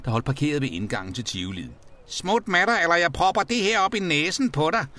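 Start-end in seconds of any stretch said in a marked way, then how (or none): 2.1-4.9 high, angry threat; truende. A narrator's reading. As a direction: threaten a rival with raised pitch. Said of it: "truede han". (truer vredt i højt toneleje)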